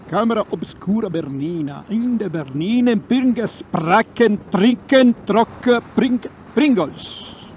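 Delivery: loud fake German gibberish; mock German. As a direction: shout made-up German words. Mock German word list. (finto tedesco urlato)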